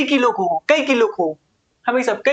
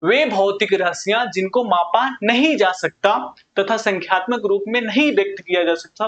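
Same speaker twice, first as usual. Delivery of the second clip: slow, deliberate repeat with weight on नहीं; slower repeat. Shown as a demonstration. Teacher repeating the definition for the class, slow and deliberate. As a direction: spell out नहीं so the class can't miss it. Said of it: "फिर से सुनिए".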